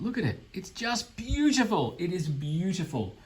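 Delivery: high, delighted gush. Real, not acted. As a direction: swoon over the model. Gushing over a miniature.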